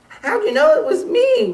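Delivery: high, loud laughing wail; wailing turkey. Acted. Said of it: "wailed Turkey".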